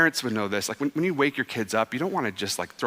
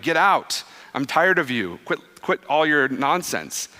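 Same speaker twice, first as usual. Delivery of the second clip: mock angry rebuke; slower than usual. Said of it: "I imagine it was like Jesus in the temple".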